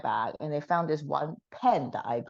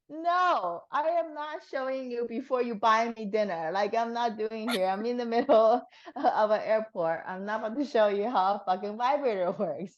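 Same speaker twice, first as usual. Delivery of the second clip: higher, half-laughing mock outrage at the request; retold mock indignation; 5 semitones higher than usual. At the airport guard asking for a demo, mock indignant refusal. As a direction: play up the indignant refusal, amused.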